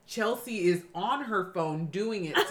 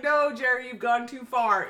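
mock correction; 2 semitones higher, 5 dB louder than usual. Retold correction over the phone.

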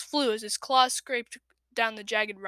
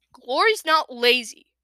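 loyal; 7 dB louder than usual. A narrator's reading. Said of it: "Clay said loyally".

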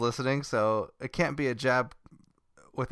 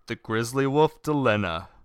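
Grizzly Wolf voice. Acted. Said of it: "How's that?".

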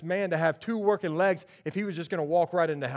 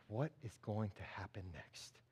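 very soft, low voice; hushed suspense; 9 semitones lower, 17 dB quieter than usual. Acted. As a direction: wonder under your breath in a silent room. Silent room wonders in suspense.

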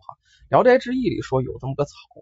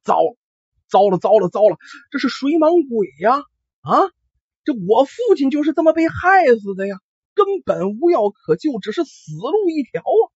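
alarmed panic; 5 semitones higher than usual. Acted. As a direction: blurt out the danger in shock. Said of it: "这朋友一听大惊失色".

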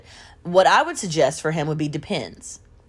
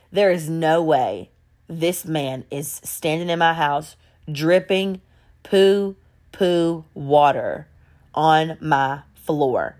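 slow, stunned disbelief; imitated shock; 3 semitones lower, slower than usual. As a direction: draw the words out one at a time, as if stunned. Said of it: "she's in shock".

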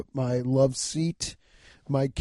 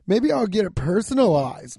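bratty voice; 5 semitones higher than usual. Acted. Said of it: "That was a brat voice".

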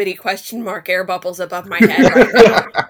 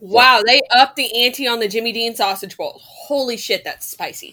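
chewing noisily. Real, not acted. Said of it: "Sorry, I'm eating my breakfast here".

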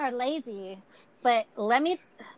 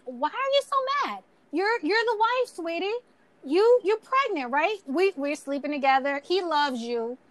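eerily calm; 3 semitones higher, 4 dB louder than usual. Retold or imitated. Mistress calmly taunting the wife on the phone, sweetly calm. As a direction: coo it calmly like she owns the place. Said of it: "like, so calm".

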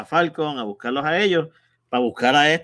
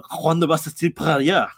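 mock dubbed French accent. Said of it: "el actor es francés, ellos hablan".

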